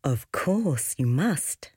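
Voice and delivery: slow, sweet motherly reply. Acted. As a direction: say it slowly and sweetly. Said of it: "replied Mother Star sweetly".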